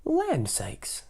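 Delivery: mama bear voice. Acted. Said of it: "in her middle-sized voice".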